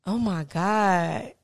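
slow, drawn-out imitation of a child; cute little voice. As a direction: lightly mimic a cute little kid, stretching it out. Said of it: "it's just in this cute little voice".

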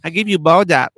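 put-on Asian accent. Voicing the pedicurist.

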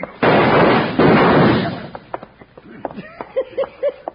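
loud, high booming laugh; big belly laugh. Acted. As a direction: let out a huge roaring laugh. Sidekick laughs at fooled villains.

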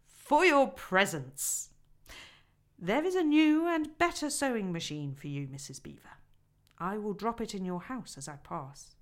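a hint of a grand old man arriving; lightly voiced Father Christmas. Father Christmas gives presents.

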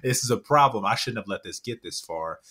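stunned, with a small laugh, settling by the end; shocked realization. Retold or imitated. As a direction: wake up to the damage with a jolt. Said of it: "It's like".

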